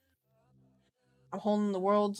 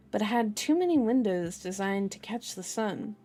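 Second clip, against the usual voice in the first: measured audiobook-style reading; story narration. A narrator's reading. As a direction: read the novel aloud, phrase by phrase. Reads the novel aloud.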